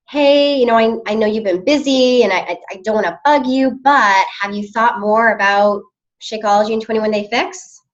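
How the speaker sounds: hesitant, apologetic invite; timid, apologetic pitch. Shown as a demonstration. Coach demos a timid invite message, hesitant. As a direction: sound unsure and sorry to bother. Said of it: "do you see the difference in those two".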